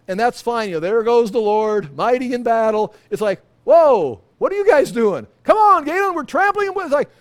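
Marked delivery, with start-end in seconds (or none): 0.8-2.9 admiring cheer. Pretend. Pastor pretending to watch the Lord fight, cheering loudly. 3.6-6.7 much higher, loud and urgent; startled, shouting comrade. Pretend. Pastor voicing fellow believers calling him to the battle.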